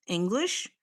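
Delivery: unvoiced teasing aside; a whispered, teasing "English?"; whispered quip. Real, not acted. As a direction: whisper it mockingly. Whispered joke.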